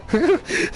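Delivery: a sudden squeaky laugh; high-pitched burst of laughter. Real, not acted. Laughs at own mishap.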